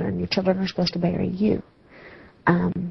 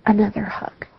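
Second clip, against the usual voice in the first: choked-up crying; 6 semitones higher than usual. Real, not acted. Grieving mother lists lost moments.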